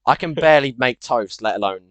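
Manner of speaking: muffled behind a rubber mask; inside a rubber mask. Real, not acted. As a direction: talk through a mask. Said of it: "I've got to take this mask off".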